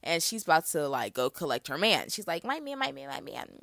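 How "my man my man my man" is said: high excited. Retold or imitated. Whitley eager to claim him.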